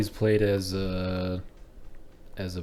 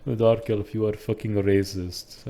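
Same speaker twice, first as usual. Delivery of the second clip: put-on Indian-accented scolding; mock Indian accent. Indian Nord calling out the dark elf, mock Indian accent. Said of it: "I'm the Indian Nord".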